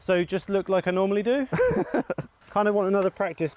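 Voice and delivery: talking through a covered mouth; muffled behind a face covering. Real, not acted. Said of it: "my mouth is covered".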